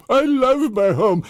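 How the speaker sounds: put-on high, slow old-lady lament; wailing grandma. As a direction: drag it out like a homesick granny. Grandmother kissing driveway.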